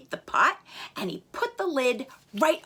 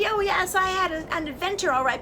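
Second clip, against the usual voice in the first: higher, weary chick answer; a small bird telling of its adventure; 6 semitones higher, faster than usual. Acted.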